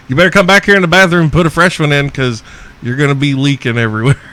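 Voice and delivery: shouting after a woman who stormed off angry; calling after her. Retold or imitated. Retold taunting call to angry woman.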